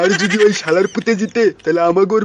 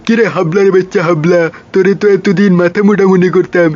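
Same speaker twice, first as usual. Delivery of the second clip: loud comic boss; 5 dB louder than usual. Acted.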